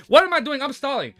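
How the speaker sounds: high, loud sudden outburst; self-mocking surprise. Real, not acted. Streamer to chat while recording the intro, startled self-mockery. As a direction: catch yourself mid-blunder. Catching himself stalling.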